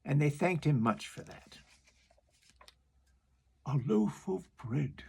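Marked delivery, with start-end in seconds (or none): 3.7-5.0 slow walrus voice; the walrus planning the meal. Acted. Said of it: "the walrus said".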